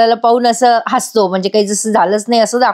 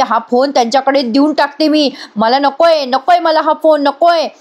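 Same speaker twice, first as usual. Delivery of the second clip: higher-pitched, insistent refusal; mock yell, raised in pitch more than volume; retold yelling; 4 semitones higher than usual. Daughter refusing her father's phone, retold yelling. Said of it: "का ओरडतेस एवढ्या मोठ्याने".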